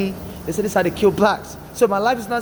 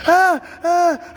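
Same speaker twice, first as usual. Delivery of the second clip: high, louder mock crying wail; retold crying wail; 10 semitones higher, 4 dB louder than usual. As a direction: briefly act out the crying, pitched high. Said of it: "I was crying".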